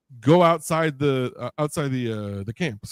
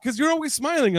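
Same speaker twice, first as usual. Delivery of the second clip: imitating buddy; 13 semitones higher than usual. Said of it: "He's like".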